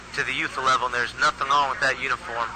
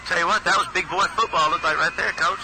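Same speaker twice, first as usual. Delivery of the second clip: excited; 3 semitones higher than usual. Real, not acted. Praising the touchdown play.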